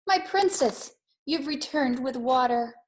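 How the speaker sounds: father scooping up his daughter, lightly voiced and fond. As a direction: lightly voice the dad lifting his girl. Father greets daughter in story.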